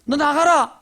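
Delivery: preacher's booming exorcism order; commanding shout. Retold or imitated. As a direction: drive the demon out in one word. Jesus casting out the demon.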